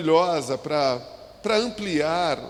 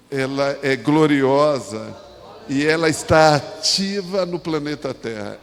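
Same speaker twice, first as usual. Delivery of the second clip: loud, declarative preacher's proclamation; emphatic preaching; 5 dB louder than usual. Real, not acted. Pastor proclaiming Jesus's promise about his church, emphatic preaching. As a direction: proclaim it firmly, leaning loud on the key words.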